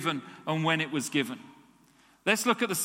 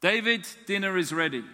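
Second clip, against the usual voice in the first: mother calling; faster than usual. Retold or imitated. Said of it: "That's a calling".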